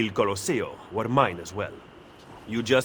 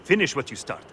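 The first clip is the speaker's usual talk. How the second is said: forceful urging. Acted. Machiavelli urges Ezio.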